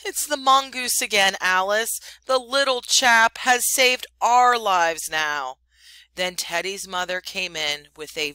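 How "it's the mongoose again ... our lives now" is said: grateful big man. Acted. Big man to his wife Alice, loud grateful relief. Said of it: "the big man picked him up and said".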